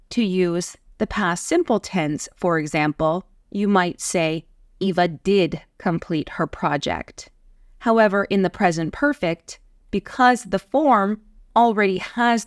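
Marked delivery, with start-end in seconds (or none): 4.8-7.3 emphatic "did"; stress on DID. Shown as a demonstration. Past tense example, stress on "did". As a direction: lean on "did". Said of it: "are creating emphasis".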